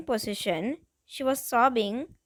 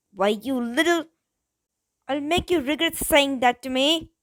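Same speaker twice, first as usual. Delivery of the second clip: enraged thug; 2 semitones higher, 4 dB louder than usual. Acted. Insulted thug loses his temper.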